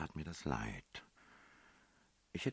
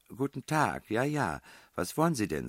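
higher, louder friendly greeting; smiling; 9 semitones higher, 6 dB louder than usual. A narrator's reading. Girl welcoming German speakers at the door, smiling. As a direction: greet them with an audible smile. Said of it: "sagte sie lächelnd".

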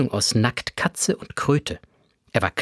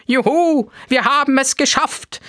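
much higher and louder, jubilant; joyful cheer; 12 semitones higher, 3 dB louder than usual. A narrator's reading. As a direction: cheer the victory. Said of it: "jubelte der Museumsführer".

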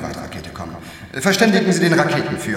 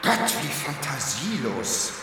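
bored contempt; 9 dB quieter, slower than usual. Acted.

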